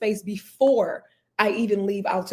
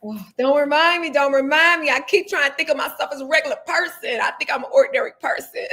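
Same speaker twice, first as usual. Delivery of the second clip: higher-pitched mock plea; playful protest; 5 semitones higher than usual. Real, not acted. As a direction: beg lightly not to be reminded, half laughing. Playful protest at being called famous.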